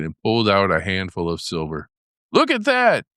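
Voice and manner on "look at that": high excited boast; cried out. A narrator's reading. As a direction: show off the silver with a high cry. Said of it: "he cried, displaying it".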